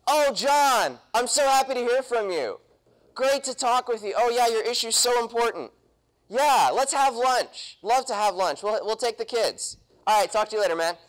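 lightly voiced gushing politician on the phone; a hint of a schmoozing politician, chummy and eager; fawning politician. Local politician schmoozing a caller on the phone, lightly fawning. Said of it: "he looks at the phone and goes".

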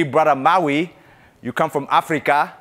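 a hint of a put-on African accent, lightly done; lightly mock African accent. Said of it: "faking that really bad African accent".

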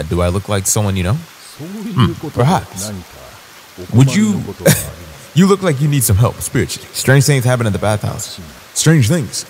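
lightly voiced solemn monk; a hint of a mysterious village monk. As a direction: intone the monk's blessing gravely. Reads monk NPC dialogue.

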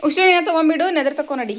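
loud, high call across the room. Real, not acted. Mother calls her daughter to ward off the evil eye, loud high call. Mother calling child at home.

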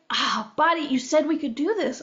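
mildly exasperated, acted-out complaint; mock-annoyed reproach; mad at own body. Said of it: "I got mad at my body".

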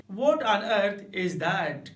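very slow "What on earth is that?" with stress on "What"; emphatic. Shown as a demonstration. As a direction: draw out "What on earth is that?", "What" hit hard. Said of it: "ऐसे भी बोल सकते हैं". ("What on earth is that?" धीरे, ज़ोर देकर)

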